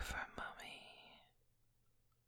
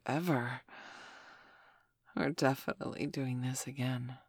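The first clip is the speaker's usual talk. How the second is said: tender murmur; 4 semitones lower, 3 dB quieter than usual. Acted. Lying on his chest, murmuring tenderly. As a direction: settle into a drowsy tender hush. Soft tender closing lines.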